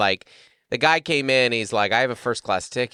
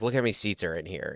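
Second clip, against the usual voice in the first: put-on annoyed man's tone, quieter; 3 semitones lower, 8 dB quieter than usual. Retelling an argument at an airport lounge desk: imitating an irritated man. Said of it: "you could see him getting irritated".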